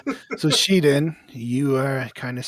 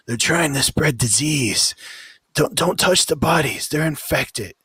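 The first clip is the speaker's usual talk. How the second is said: higher, louder shouted warning from the wall; guard yelling a warning; 7 semitones higher, 7 dB louder than usual. Acted. Guard on the wall warning everyone off the bodies, shouting. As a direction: bark the alarm down to the city. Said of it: "you hear one of 'em yell out".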